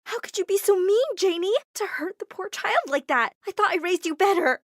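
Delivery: mother yelling at her daughter; angry yell. Acted. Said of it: "she yelled at me".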